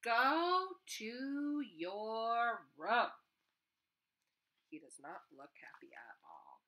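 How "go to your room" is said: stern mom. Acted. Mom sending child away.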